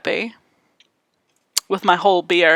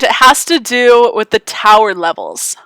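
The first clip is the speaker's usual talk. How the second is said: teacher voice. Real, not acted. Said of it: "I'm using my teacher voice".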